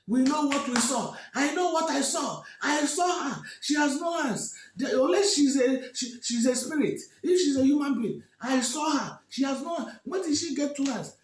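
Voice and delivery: high, loud shouted protest; angry protesting. Acted. The two women protesting loudly as they are seized. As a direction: shout it desperately, refusing to yield. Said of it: "The women were protesting".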